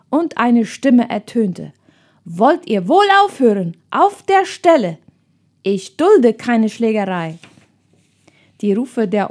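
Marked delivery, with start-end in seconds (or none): 2.2-7.4 firm, raised adult voice stopping a fight; stern scolding. Acted. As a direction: order them apart, sharp.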